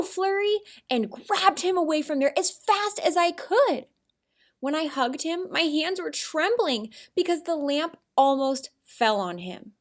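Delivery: expressive storytelling, rising and falling; excited reader's voice. Shown as a demonstration. Teacher shows kids her excited story reading. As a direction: read it with feeling, as she imagined it. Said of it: "I read it like this".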